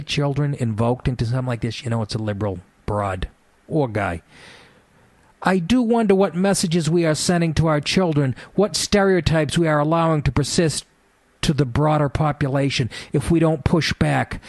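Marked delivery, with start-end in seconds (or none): 5.5-14.4 raised, prim mocking voice; prissy quoted activist. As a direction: repeat it like a pearl-clutching scold. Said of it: "Pauline Turley".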